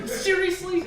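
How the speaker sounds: put-on high French-accented warning. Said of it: "with a French accent".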